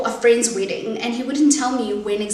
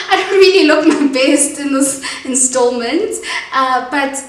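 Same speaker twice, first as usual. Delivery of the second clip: teary; 3 semitones higher, 7 dB louder, slower than usual. Real, not acted. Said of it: "I'm a very, very ugly crier".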